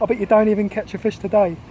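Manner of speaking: half joke, half prediction, lobbed at a mate; half-jesting taunt. Acted. Cornish friend betting against the Londoner, half-jesting taunt. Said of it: "half in jest and half in prophecy".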